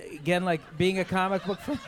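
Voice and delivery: put-on a light Cockney chimney sweep accent; mock Cockney sweep voice. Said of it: "Anthony's amazing Cockney chimney sweeper voice".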